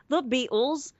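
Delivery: poor attempt at a British accent. Shown as a demonstration. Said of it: "that's as close as I can get to an accent".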